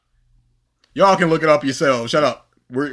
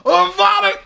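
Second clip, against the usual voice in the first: imitating Voldemort; 13 semitones higher, 3 dB louder than usual. Fan imitating Voldemort starting the curse. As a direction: start the curse, then hold. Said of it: "he goes".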